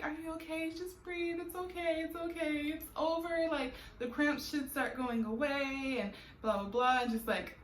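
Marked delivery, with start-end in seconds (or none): 0.0-6.0 calming reassurance. Retold or imitated. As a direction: gently talk her down from the pain. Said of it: "breathing with me and calming me down".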